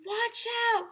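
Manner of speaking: high cry of alarm; warning shout. Acted. Kids warning the falling principal, shouted alarm. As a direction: yell out a frantic warning.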